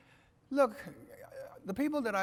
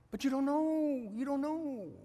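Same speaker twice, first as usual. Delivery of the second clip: pleading protest; 10 semitones higher, slower than usual. Retold or imitated. Retold argument with wife.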